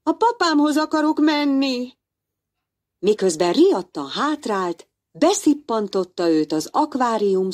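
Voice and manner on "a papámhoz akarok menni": magas, sírós gyerekhang; könyörögj az apádért; kétségbeesett kisfiú. Acted. Némó kétségbeesett folytatás. (Némó kétségbeesetten az apjához akar menni)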